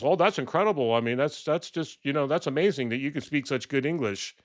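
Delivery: mock Trump. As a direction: gush like a clueless Trump. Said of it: "Trump says".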